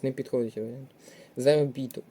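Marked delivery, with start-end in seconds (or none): 1.4-2.0 Заробіток stressed on БІ, the third syllable; Заробіток as заро-БІ-ток. Shown as a demonstration. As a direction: lean on БІ in Заробіток. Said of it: "падає на третій склад наголос".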